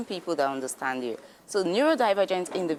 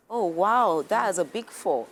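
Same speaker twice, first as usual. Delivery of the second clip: calm empathy. Shown as a demonstration. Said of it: "you could just like".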